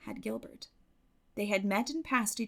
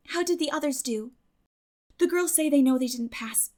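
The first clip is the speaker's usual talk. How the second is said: lightly voiced lively girl, a bit higher; Anne's voice; 5 semitones higher, 5 dB louder than usual. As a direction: chatter eagerly to a best friend. Anne answers Diana.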